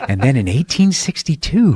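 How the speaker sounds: lightly voiced dull audiobook reader; mock the pompous narrator reading history. A light mock of a dull audiobook reader, voiced for a podcast host. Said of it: "Where it's just like".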